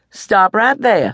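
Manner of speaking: slow, firm command; Mama putting a stop to the quarrel; stern Mama. A narrator's reading. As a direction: halt them word by word. Mama cutting off argument.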